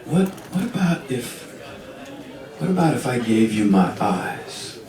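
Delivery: softly halting, long pauses; tentative, acted turtle's proposal; hesitant offer. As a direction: feel your way into a big offer.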